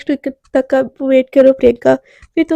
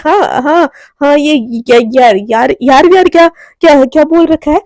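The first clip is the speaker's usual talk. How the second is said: stammering, flustered mock anger, louder in bursts; 4 dB louder than usual. Garima flustered, scolding Anaya with stammering nerves. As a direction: trip over the words, panicking while trying to sound angry. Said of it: "एकदम घबराते हुए बोलती है".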